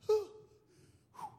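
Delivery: short huffs of mock exertion; winded puffing. Preacher acting out his own struggle, winded puffing. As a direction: puff out breath as if worn out.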